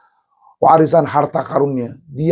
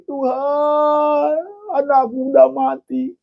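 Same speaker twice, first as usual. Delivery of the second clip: grieving Job; 11 semitones higher than usual. Acted. Job telling God of loss.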